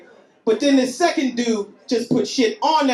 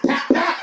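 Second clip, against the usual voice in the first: imitated hits; 8 semitones higher than usual. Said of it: "two back-to-back hits in my back".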